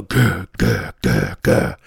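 low grunting gah, dropping far down; gorilla grunts. Retold or imitated. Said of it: "the gorilla would go".

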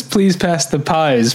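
slow, mechanical phrasing; robot voice. Retold or imitated. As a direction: say it like a machine. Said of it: "who says".

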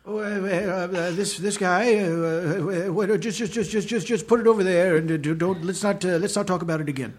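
put-on halting, hesitant old man voice; doddering old man. Shown as a demonstration. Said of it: "What's your old man voice?".

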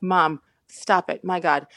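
slow, mildly exasperated protest. Retold or imitated. Daughter begging mom to stop matchmaking, mildly exasperated. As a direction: draw out a retold plea to an embarrassing parent.

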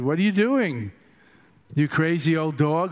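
put-on puzzled monks ticking off an old dog; mock scolding. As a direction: lightly act out the monks' disapproval. Acting the monks scolding Patrul.

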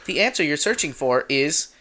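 beeping robotic phone assistant; chirpy voice of a phone. Pretend. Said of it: "I'm Dane's phone".

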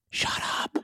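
forceful unvoiced whisper. Shown as a demonstration. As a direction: whisper it as an order. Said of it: "number one thing to whisper".

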